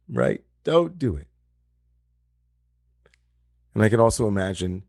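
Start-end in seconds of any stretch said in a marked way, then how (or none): 0.6-1.3 mock shout. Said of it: "screaming through, right, the Zoom room".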